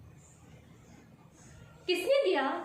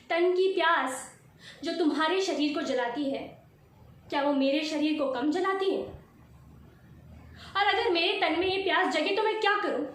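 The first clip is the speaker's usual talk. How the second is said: raised, indignant voice pressing each question; impassioned confrontation. Acted. Wife challenging husband over double standards, heated and indignant. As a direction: throw heated questions at him.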